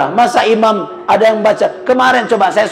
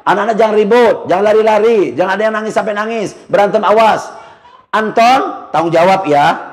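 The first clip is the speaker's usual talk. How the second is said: imam announcement to the congregation. Shown as a demonstration. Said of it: "Bapak gini".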